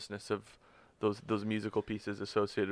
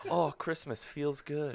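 slow, higher-pitched cheery sing-out; put-on in-your-face cheer, a little higher; mock cheery; 4 semitones higher, 4 dB quieter, slower than usual. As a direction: draw it out with hammed-up holiday cheer. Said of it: "He needs the cheery in your face".

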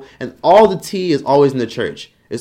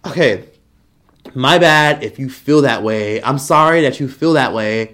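fake apology; slower than usual. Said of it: "they get on camera and they say".

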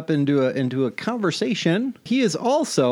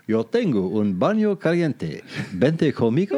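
telenovela Spanish; 2 semitones lower than usual. Shown as a demonstration. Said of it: "What did you just say?".

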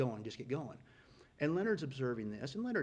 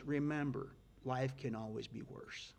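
fatherly advice. Retold or imitated. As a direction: lay it down calm like an old mentor.

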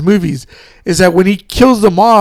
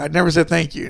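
low, soft, understated delivery of "I never said thank you"; hushed, lower take of the quote; quiet Batman line; 3 semitones lower, 6 dB quieter, faster than usual. Retold or imitated. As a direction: murmur it low like a hero turning away. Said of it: "maybe just the way he says it".

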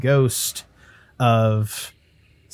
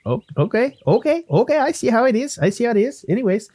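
put-on Irish-Canadian lilt, miffed; huffy ghost Willie; 10 semitones higher, faster than usual. Ghost brushed off by the adventurer, huffy. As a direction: take mild offence as a chatty ghost.

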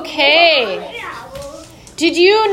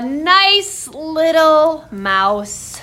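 tiny mouse voice; much slower than usual. Pretend. Turning the kids into a mouse.

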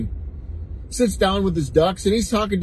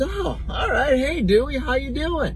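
chirpy bartender; 8 semitones higher than usual. Acted. Bartender greets second duck.

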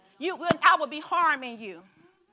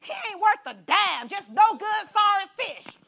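mock complaint; 4 semitones higher than usual. Mocking a fish left on land.

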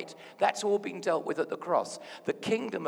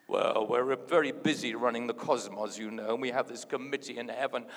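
lightly voiced officious committee member, lower pitch; lower, mock-businesslike voice; mock busy committee; 5 semitones lower, 3 dB louder than usual. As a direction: send up a self-important official explaining himself. Mock answer voiced for the Trinity.

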